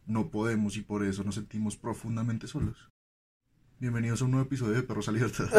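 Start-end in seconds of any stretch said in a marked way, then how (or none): 3.8-5.5 laughing. Real, not acted. Joking fake intro after gloomy talk.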